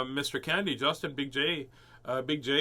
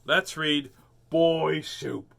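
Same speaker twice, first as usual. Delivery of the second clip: louder, showy announcer voice; 3 semitones higher, 6 dB louder, much slower than usual. Shown as a demonstration. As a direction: announce the title with flair. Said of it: "I wanna do the voice again".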